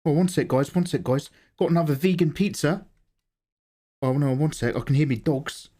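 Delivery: put-on light Kiwi streamer accent. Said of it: "You just sound Kiwi".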